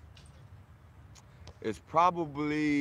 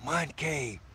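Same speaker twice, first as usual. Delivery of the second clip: hushed, much softer; whispered; 6 dB quieter than usual. Shown as a demonstration. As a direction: whisper the name as a secret. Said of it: "I gotta whisper that".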